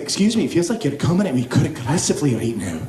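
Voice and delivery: put-on Scottish accent, politely affronted; fake Scottish accent. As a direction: play a panicked fake Scot. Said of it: "I pretended I was from Scotland".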